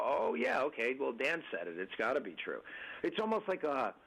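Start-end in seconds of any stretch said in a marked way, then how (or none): 0.0-2.6 a hint of a wide-eyed believer; mock gullible agreement. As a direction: play the eager yes-man who swallows anything the boss says. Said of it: "And you'd look at me and go".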